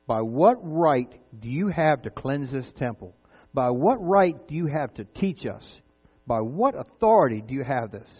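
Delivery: slow, pointed mock challenge of the authorities; each word laid out slowly, questioning his right; indignant challenge. Temple leaders slowly challenge Jesus, indignant.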